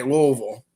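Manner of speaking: Louisville as "LOO-vull"; local pronunciation. Shown as a demonstration. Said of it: "if you're from there, you would say".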